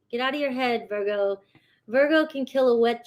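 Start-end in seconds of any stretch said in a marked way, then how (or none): 0.1-1.4 softer, gentle echo; soft repeat. Acted. Reader softly repeats her advice to Virgo viewers. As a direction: say it again quietly to let it sink in.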